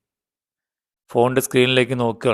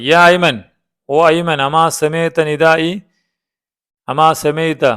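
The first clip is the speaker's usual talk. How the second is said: mildly angry, raised pitch on the call; a touch of anger, calling out higher; angry scolding; 3 semitones higher than usual. Acted. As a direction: scold a child who ignored the call. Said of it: "ദേഷ്യത്തോടെ".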